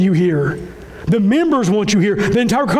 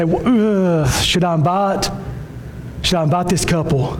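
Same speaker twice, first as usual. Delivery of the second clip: waver as if unsure whether to ask; acted hesitancy. Pastor imitating a member unsure about inviting, hesitant. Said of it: "don't let there be any hesitancy".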